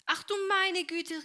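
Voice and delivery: high and slow dismayed cry; startled exclamation. A narrator's reading. Helene cries out as the bowl shatters, high and slow. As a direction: gasp it out as the bowl breaks. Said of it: "rief Helene".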